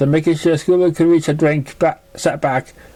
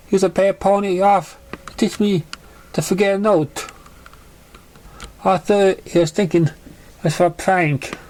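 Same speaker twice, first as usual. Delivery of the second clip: lightly voiced young filly, a bit higher, subdued; young filly telling her story; 5 semitones higher than usual. To a kind listener, filly shares her painful past, lightly voiced.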